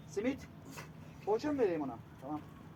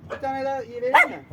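high, loud, eager offer of another treat; excited offer; 10 semitones higher, 9 dB louder than usual. Real, not acted. Seller to stray animals, high loud excited offer. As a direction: pitch it up and call it out brightly.

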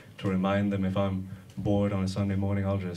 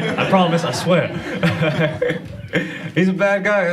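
louder, higher pleading protest; insisting loudly; 6 semitones higher, 6 dB louder than usual. Real, not acted. Comic denying kinship with the president, loud urgent protest. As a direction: swear it, pressing hard that you're no relation. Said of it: "I cannot stress this enough".

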